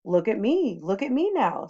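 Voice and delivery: a showman crowing over his tricks; cat in the hat bragging; showing-off cat. Acted. Cat shows off balancing act.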